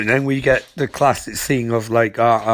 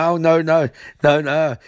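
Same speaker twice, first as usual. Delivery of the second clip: high, hammed-up dismay; mock panic; 5 semitones higher than usual. Villain having a bad electricity trip, mock panic. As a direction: play at panicking, voice pitched up.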